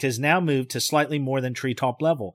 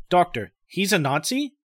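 questioning; 4 semitones higher than usual. Acted. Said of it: "a questioning tone in Barney's voice".

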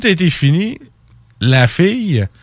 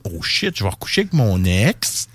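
hushed dismay; 7 semitones lower, 6 dB quieter than usual. Retold or imitated. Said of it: "elle a fait comme".

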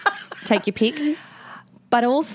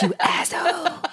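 mock outrage; 10 semitones higher than usual. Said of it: "Did you let your kid cry".

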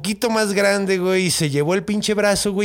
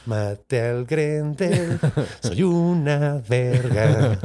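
smug and happy; 2 semitones lower, much slower than usual. Retold or imitated. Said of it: "así súper contento".

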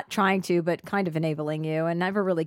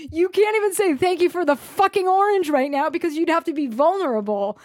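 laughing; 9 semitones higher, 6 dB louder than usual. Real, not acted.

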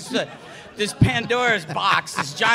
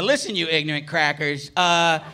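berserk rage. Retold or imitated. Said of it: "finally I just snap".

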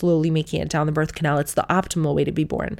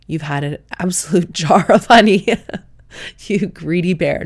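teasing mock midwife; 5 dB louder than usual. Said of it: "No, she didn't say that".

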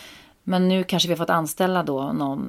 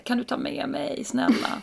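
calling out; 7 semitones higher than usual. Retold or imitated. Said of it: "då hör jag Jakob ropa så här".

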